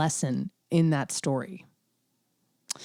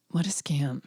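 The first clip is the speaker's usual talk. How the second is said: whispered grumble; 2 semitones lower, 3 dB quieter than usual. Retold or imitated. Grumbling about the holidays.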